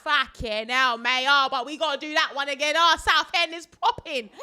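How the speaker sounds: loud laddish rant; imitating a brash lad; loud Essex lad. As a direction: moan and brag like a rowdy lad. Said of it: "he was like".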